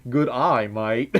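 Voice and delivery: "Good eye, mate" in a Southern-tinged attempt; attempted non-Australian accent. Shown as a demonstration. Streamer answers Rick's dare, slipping on a non-Australian "Good eye, mate". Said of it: "I did say it without sounding Australian".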